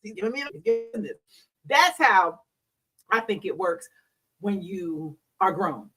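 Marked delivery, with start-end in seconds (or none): 0.0-1.2 pleasantly surprised. Retold or imitated. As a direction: coo it, caught off guard in the bedroom. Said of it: "I'm like".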